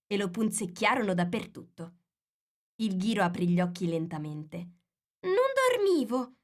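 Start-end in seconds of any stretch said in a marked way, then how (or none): none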